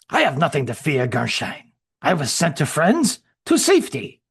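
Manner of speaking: lightly voiced, overconfident soldier; German soldier voice. Shrek brushing off Gerstein's warning, confident accented voice.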